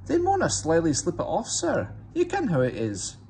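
sly Scottish engine excuse; Scottish accent. A narrator's reading. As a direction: innocent Scottish twins to the boss. Scottish twin engines answering.

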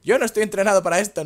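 whiny complaining character. Retold or imitated. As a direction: moan like a tired climber. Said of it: "en plan de".

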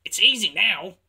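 high, loud, pleased exclamation; triumphant. A narrator's reading. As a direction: crow it with relief. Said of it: "he puffed triumphantly".

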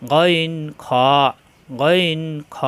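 "গইন খ" thick and full from the top of the throat; round, heavy vowel on "গইন" and "খ"; drawn-out, thickened "গইন খ"; heavy articulation. Shown as a demonstration. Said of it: "মোটা করে উচ্চারণ".

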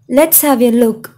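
slow, clear, each word set apart; slow model phrase. Shown as a demonstration. Teacher modeling a phone phrase for students, slow and clear. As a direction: spell it out slowly for learners. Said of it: "teacher models English phrase".

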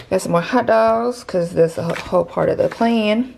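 out of breath; breathless while talking; shallow breathing. Real, not acted. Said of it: "I'm out of breath".

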